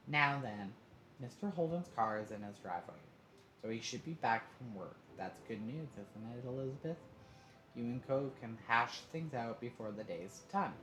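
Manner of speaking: brisk, cheerful mother; a motherly voice taking charge; mom voice. Acted. Mom voice in story.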